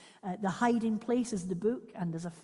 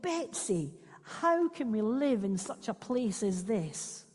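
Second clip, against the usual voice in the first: mild wail; 3 semitones higher than usual. Acted. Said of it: "I wailed".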